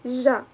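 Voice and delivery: isolated ج pronounced zh; ج with no d before the zh; sound demonstration. Shown as a demonstration. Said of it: "represents the sound".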